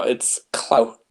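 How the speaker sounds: "clout" said slowly with a crisp final T; correct pronunciation. Shown as a demonstration. Insisting on the right word, slow "clout" ending in T. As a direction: draw out "clout", then release the T separately. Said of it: "It's not cloud with a D".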